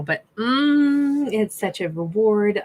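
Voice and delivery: savoring a sip, mm of pleasure; slurping decaf. Real, not acted. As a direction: speak right after slurping coffee. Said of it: "Sorry, I'm slurping decaf right now".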